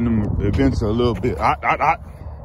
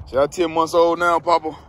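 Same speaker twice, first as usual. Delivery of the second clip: lightly raised puppy voice speaking to Papa; voicing the puppy; 4 semitones higher than usual. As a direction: speak for the dog like a little kid. Speaking as the dog.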